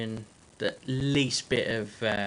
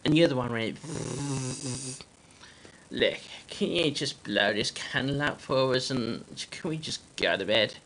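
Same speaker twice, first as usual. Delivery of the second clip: stressed dad in a put-on Amish accent; harried, accented Amish dad. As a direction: plead with the neighbour in a character accent. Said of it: "We're stressed here".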